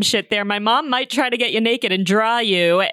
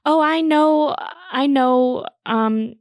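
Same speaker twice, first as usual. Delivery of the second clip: put-on proud little kid; 6 semitones higher, much slower than usual. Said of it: "I said".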